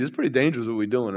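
soft, low-voiced "It's pretty dangerous what we're doing"; quiet retold warning; hushed. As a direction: say it quietly as the worried brother. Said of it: "I'm like".

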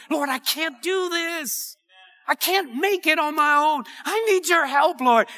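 high-pitched cry of helplessness; humble plea. Acted. Preacher voicing a believer asking the Lord for help, humble pleading. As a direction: admit helplessness and plead upward. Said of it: "cry out in humility".

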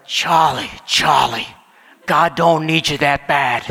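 a blunt New Yorker setting a friend straight; heavy Brooklyn accent. Retold or imitated. College friend counseling worried Charlie, heavy Brooklyn accent. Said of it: "in his heavy Brooklyn accent".

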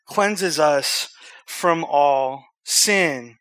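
emphatic, measured Bible reading; scripture reading. Acted. Preacher reading First John to the room, emphatic scripture reading. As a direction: read it out firmly, stretching key words.

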